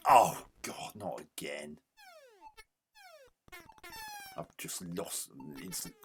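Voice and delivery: groaning, fed-up complaint; weary disgust. Real, not acted. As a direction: sigh it out, sick of losing. Losing again in the game.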